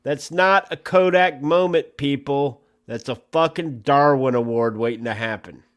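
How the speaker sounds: hammed-up public safety announcement to snake photographers; mock news bulletin. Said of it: "fucking breaking news here".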